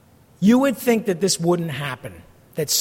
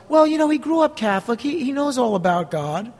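lightly voiced excuse-maker, higher on well; mock excuse; 4 semitones higher than usual. Pastor imitating a churchgoer defending a Catholic partner, lightly mocking. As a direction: sell the excuse with naive confidence.

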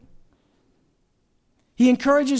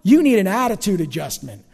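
louder, sterner parent scolding; 7 dB louder than usual. Retold or imitated. Parent scolding a child, stern and louder. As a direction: play the parent telling off a kid. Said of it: "Your parents or your teachers?".

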